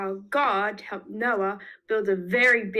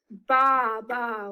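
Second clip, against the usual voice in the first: sheep baa. Shown as a demonstration. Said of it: "help me with some of these sound effects".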